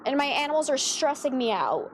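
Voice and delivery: ordinary talk, nothing marked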